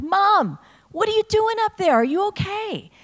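put-on high, loud, worried child calling up to the roof; alarmed little girl. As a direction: play the kid shouting up at mom on the roof. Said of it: "And I'm like".

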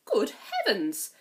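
slow, amused exclamation; surprised. Acted. Fairy godmother exclaims at the ragged dress, slowly. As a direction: tut at the rags.

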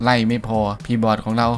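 usual speaking voice

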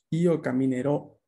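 "Io caminerò" with the final ò wide open and stressed. Shown as a demonstration. Teacher demonstrating caminerò to class, open final o. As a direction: open the mouth wider on the last ò of caminerò. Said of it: "esa O final se pronuncia con una abertura".

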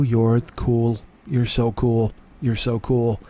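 low drawling Southern praise; lightly voiced Alabama fan. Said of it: "what Alabama says to you".

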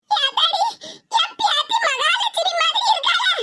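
put-on high, slow, tearful old woman; teary grandmother. Grandmother weeping with joy over her granddaughter, high and tearful. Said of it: "கண்ணு கலங்கிக்கிட்டு இருக்கியா".

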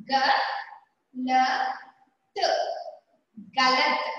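గ, ల, త said apart, then గలత్ blended; sounding out letters. Shown as a demonstration. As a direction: say గ ల త one by one, then join as గలత్. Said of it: "making of the word చేసుకుందాం". (అక్షరాలు కలిపి పదం చదవడం)

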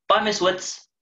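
put-on high, bright little girl's voice; little sister calling her brother home, high child voice. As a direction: play a small girl fetching her brother. Child Phoebe voiced in story.

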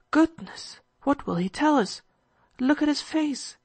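anxious. Acted. Kolya sees the doctor's face, anxious. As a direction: wonder anxiously, pitch jumping up.

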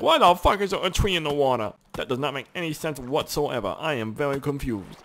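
voicing a baffled shark, starting high; comic shark voice, overly precise; confused shark. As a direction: play an indignant, puzzled talking shark. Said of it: "Sharks would be like".

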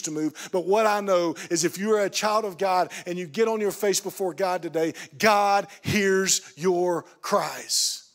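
emphatic, driving sermon delivery; impassioned preaching. Real, not acted. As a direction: preach it with conviction, landing each key phrase.

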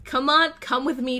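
ordinary delivery

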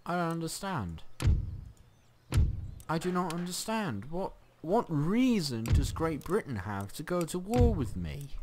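high-pitched, wounded bewilderment; bewildered complaint. Real, not acted. Gamer asks why Great Britain attacked, bewildered whine.

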